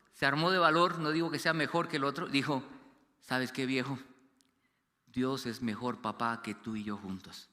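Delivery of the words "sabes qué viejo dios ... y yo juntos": lower, softer, slow reassurance; hushed, slow words of faith to a fellow patient; quiet reassurance. Retold or imitated. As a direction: comfort a friend gently. Dying father's faith-filled comfort.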